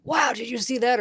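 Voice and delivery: excited call-out. Acted. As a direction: act out blurting it to the group. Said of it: "'cause I'm, you know".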